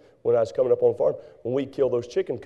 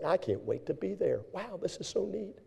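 eager churchgoer; 5 semitones higher, 10 dB quieter than usual. Retold or imitated.

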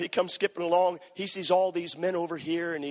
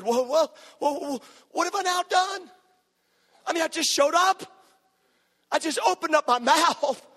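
much higher, louder, building to a shouted cry; outraged shout; 6 dB louder than usual. Acted. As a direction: preach David's outrage at full force. David's outraged protest, preached.

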